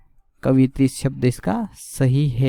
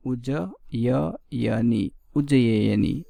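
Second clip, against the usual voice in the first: drawn out very slowly, syllable by syllable; slow spelled-out word; 3 semitones lower, much slower than usual. Shown as a demonstration. Teacher drawing out उज्जयिनी slowly for students. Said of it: "इसका सही बनेगा उज्ज".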